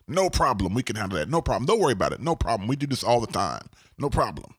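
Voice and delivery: hint of Jamaican lilt, rattling off assurances; Jamaican accent. Contractor waving off a client's worry about trash, light Jamaican accent. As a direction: imitate a breezy contractor with a slight Jamaican accent. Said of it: "I put this Jamaican accent".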